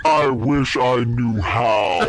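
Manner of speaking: mock Brokeback Mountain quote shouted slowly; hammed-up movie line. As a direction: shout it out slow like a lovesick cowboy. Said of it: "Brokeback Mountain".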